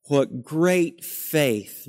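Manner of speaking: slow, hushed repeat of the admiring sigh; mock awe, repeated. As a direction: echo the wistful admirer, a little plainer. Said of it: "We look back at Abraham and say".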